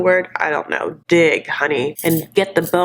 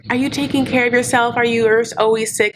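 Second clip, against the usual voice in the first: lightly voiced fussing mother, higher pitch; creepy doting mom; 4 semitones higher than usual. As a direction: imitate a smothering mom's questions. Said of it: "her mom relationship is so creepy".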